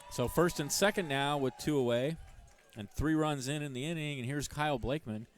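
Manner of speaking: excited play-by-play. Real, not acted. Live play-by-play after scoring.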